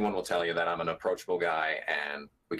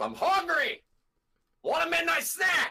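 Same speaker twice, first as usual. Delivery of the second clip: mock, put-on yelling, much higher-pitched; 3 dB louder than usual. Claiming he's never this chill, mock yelling. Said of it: "I'm always yelling from the moment I wake up".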